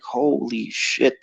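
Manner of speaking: slow, hushed amazement; softly retold astonishment; awed reaction. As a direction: draw it out under your breath, stunned. Stunned by a huge bark.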